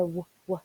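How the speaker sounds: short "w, w" as the bare sound of the letter; letter sound demo. Shown as a demonstration. Teacher shows pupils the sound, "w, w" as separate short sounds. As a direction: say "w, w" as "wuh, wuh", not the letter name. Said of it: "Whenever I say the w, w sound".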